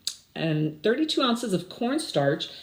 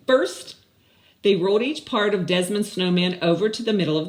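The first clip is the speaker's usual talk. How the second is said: lively, even storybook read; reading to children; 3 dB louder than usual. Acted. Teacher reads the story aloud to her class, lively storybook voice. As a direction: read it out like a story to little kids.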